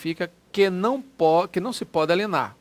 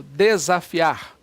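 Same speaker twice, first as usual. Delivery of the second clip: drawn out, a touch louder; slow demo word; 5 dB louder, much slower than usual. Shown as a demonstration. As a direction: lay out the word slowly for students. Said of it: "teacher shows word". (professor pronuncia devagar para a turma)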